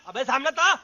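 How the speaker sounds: rough dare at ordinary volume; angry challenge. Acted. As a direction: dare him to step out, tune rising. Challenging rival to a fight. (गुस्से भरी चुनौती)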